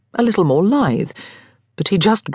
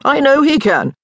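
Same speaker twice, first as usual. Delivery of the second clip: higher, louder tipsy exclaim; 9 semitones higher, 4 dB louder than usual. Acted. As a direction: blurt it out with conviction. Charles Dunwoody exclaimed.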